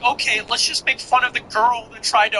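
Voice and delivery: TikTok sound. Retold or imitated. Mocking a critic with a TikTok sound, light imitation. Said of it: "like that TikTok sound".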